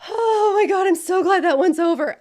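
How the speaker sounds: relieved whisper. Retold or imitated. Trainee's imagined sigh of relief after a hard call, whispered. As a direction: whisper it like the call is finally over. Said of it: "But then you're like".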